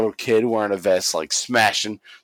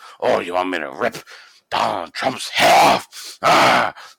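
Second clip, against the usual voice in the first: put-on rough, angry old man rant, rising, blowing up. Retelling how he then gets all pissed off: imitating an angry Vince McMahon. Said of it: "then he gets all pissed off".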